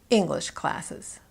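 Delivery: slowly, "English" stressed and "classes" falling away. Shown as a demonstration. Coach answers what kind of classes, stress on "English". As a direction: answer with focus on "English", letting "classes" drop. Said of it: "What kind of classes is she taking?".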